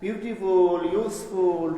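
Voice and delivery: "বিউটিফুল, ইউজফুল" with each syllable set apart. Shown as a demonstration. Teacher listing breakable words, syllables measured out. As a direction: sound out বিউটিফুল and ইউজফুল in parts. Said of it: "দেখো যে দুইটাকে ভাঙা যায়".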